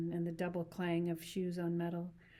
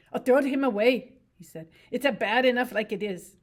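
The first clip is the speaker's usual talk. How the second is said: higher simple-minded ranch hand voice, eager; Lenny; 5 semitones higher, 11 dB louder than usual. Acted. To Curly's wife about rabbits, eager simple voice.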